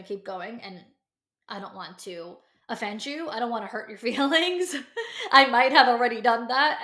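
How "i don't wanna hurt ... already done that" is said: louder, laughing through the words; laughing apology. Real, not acted. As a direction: laugh it off sheepishly. Laughs at her own harshness.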